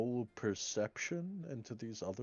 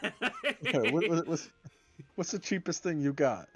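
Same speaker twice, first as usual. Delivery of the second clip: timid customer; 9 semitones higher, 5 dB louder than usual. Acted. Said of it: "asking cheap food in character".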